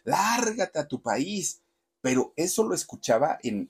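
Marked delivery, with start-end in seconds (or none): 0.0-1.6 mock crowd yell. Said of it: "Así le gritaban".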